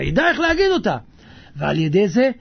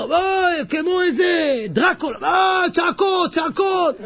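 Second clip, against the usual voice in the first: tag; 7 semitones higher, slower than usual. Retold or imitated. Imitating neighbours yelling up a building.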